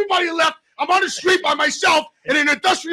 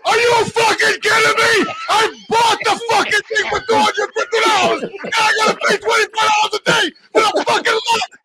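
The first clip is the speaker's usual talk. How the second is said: angry rant; 6 semitones higher than usual. Real, not acted. Venting the day's frustration.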